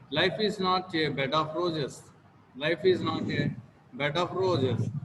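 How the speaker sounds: statement tune, dropping on "roses"; falling intonation. Shown as a demonstration. Teacher showing students a statement, falling intonation on "roses". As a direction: let "roses" fall at the end. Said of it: "falling intonation in the sentences like statements".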